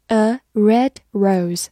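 slow, careful model reading. Shown as a demonstration. Teacher repeating the phrase slowly for the class. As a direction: spell it out slowly for learners. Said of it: "就是红玫瑰".

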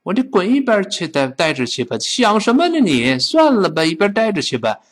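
high-pitched, hammed-up dismissal; acted exasperation, swooping up then dropping; scornful brush-off. Teacher plays someone refusing to lend the car, hammed-up scorn.

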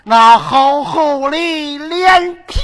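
拖腔笑骂. Acted. 父王拖腔笑骂.

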